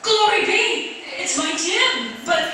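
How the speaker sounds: high, loud, slow cry of astonishment; astonished mother. Acted. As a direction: cry out in shock at seeing her son. Mother sees sooty son.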